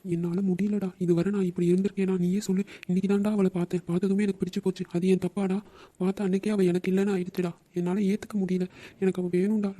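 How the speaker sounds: mildly tearful, heartbroken plea; tearful pleading. Acted. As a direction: plead through held-back tears to a friend. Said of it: "இப்ப என்ன ஆச்சு நீ அழுவுற?". (அழுகையோடு கெஞ்சல்)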